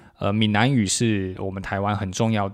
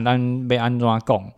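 Taiwanese; slower than usual. Retold or imitated. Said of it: "要有时候就教他".

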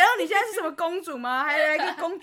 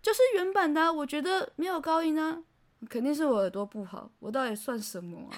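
felt tone recreated; 3 dB quieter than usual. Retold or imitated. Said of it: "我还原一下当时我看到这句话的那个声音的感受".

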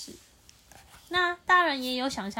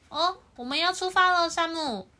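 storybook parent voice; 6 semitones higher, 6 dB louder than usual. Acted.

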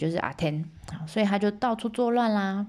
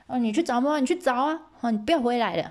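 angry dad; 5 semitones higher, 4 dB louder, faster than usual. Acted. Father throws son out.

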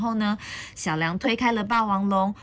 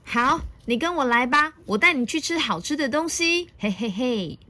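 high, coaxing villain voice, then a chuckle; sly storybook dinosaur invitation; scheming Tyrannosaurus; 6 semitones higher than usual. A narrator's reading. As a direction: lure the little one along. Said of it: "霸王龙说".

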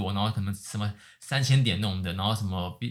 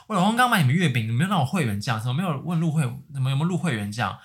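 angry customer; 2 semitones higher, 3 dB louder than usual. Retold or imitated. Angry customer voiced in story.

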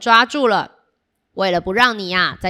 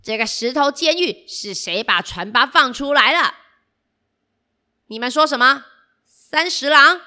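angry villain; 5 semitones higher than usual. Acted. Villain finds prison empty.

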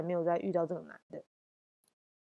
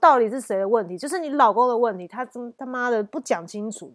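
louder blaming retort; fierce; 3 semitones higher, 6 dB louder than usual. Retold or imitated. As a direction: throw the blame back at her. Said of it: "我就很凶".

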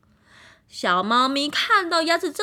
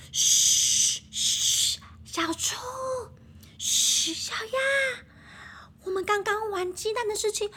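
high, hushed whisper; urgent hush; 12 semitones higher than usual. Acted. Kitten hushes friends before hen returns, high urgent whisper. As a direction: shush them nervously. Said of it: "小猫咪睁大了眼睛说".

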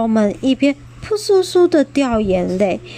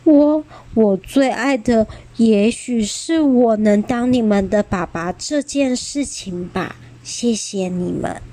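微笑着说. Acted. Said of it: "面带着微笑说".

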